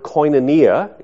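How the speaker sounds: "koinonia" said as koy-nuh-NEE-uh; pronunciation demo. Shown as a demonstration. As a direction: say "koinonia" clearly, stressed on the "nee". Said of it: "is how you pronounce it".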